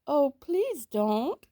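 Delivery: lightly voiced pleading boy; small boy pleading. A narrator's reading. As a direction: stretch the plea out slowly. Sambo pleading.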